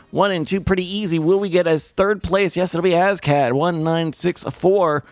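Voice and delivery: quick, upbeat caster voice; brisk esports commentary; race play-by-play. Acted. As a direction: call the race like a sportscaster. Casts the race.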